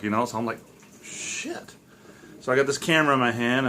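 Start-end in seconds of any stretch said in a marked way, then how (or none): 1.0-1.7 breathless whispered shit; whispered curse. Retold or imitated. Frozen with fear in the stairway, whispered curse. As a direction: hiss it under your breath.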